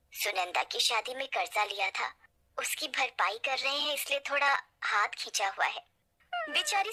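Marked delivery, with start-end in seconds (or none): none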